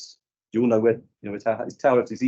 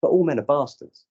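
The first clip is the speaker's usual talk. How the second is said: lightly voiced client, a touch higher; playing the young woman, a bit higher; client's voice; 9 semitones higher, 4 dB louder than usual. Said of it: "She went".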